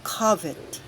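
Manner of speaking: Covet said KUV-it, falling at the end. Shown as a demonstration. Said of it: "please take note of this word".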